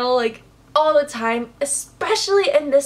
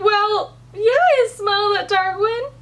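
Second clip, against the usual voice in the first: higher, mock tearful snap back; defiant retort; 8 semitones higher than usual. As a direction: throw it back at him, half crying. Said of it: "And she was like".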